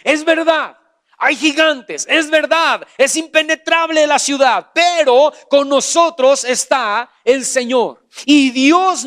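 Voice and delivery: fiery sermon climax; rising preaching shout. Real, not acted. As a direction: preach it hard, climbing to a cry.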